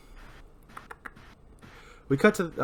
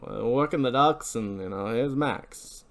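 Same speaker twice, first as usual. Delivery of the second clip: noir voice. Acted. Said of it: "I decided to do the noir voice".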